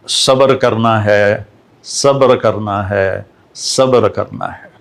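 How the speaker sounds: slow, fading repetition of صبر کرنا ہے; grieving father urging patience, slow and fading; slow mournful plea. Retold or imitated.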